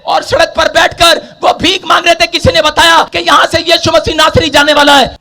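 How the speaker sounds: loud, high-pitched sustained sermon delivery; full-force preaching. Acted. Preacher retelling Jericho to the congregation, full-force preaching. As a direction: preach it in a driving, unbroken shout.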